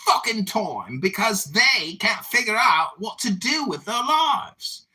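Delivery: put-on troll voice. Troll lecturing the room in a put-on voice. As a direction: preach at the room in the fake character. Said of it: "I guess I can stop talking like this now".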